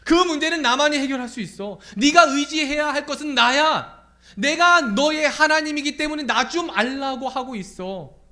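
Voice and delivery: loud, high, insistent proclamation; commanding divine appeal; God speaking. Acted. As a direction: stretch the words out at full preaching force. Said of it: "말씀하는 거예요".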